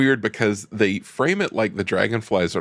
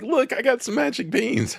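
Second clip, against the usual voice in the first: high, cheerful Mickey Mouse squeak. Retold or imitated. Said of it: "And Mickey's like".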